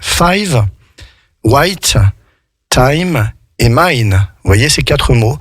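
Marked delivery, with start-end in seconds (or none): 0.0-4.3 Five, white, time, mine spaced out, each with "aï"; slow demo of Five, white, time, mine, long "eye". Shown as a demonstration. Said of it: "je redonne mes exemples".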